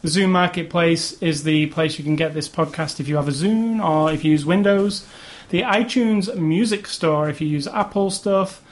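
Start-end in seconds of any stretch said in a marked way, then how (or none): 5.5-8.6 slow, disdainful plug. Real, not acted. Podcast host listing where to subscribe, with disdain. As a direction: draw it out with a touch of disdain. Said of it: "He says with disdain in his voice".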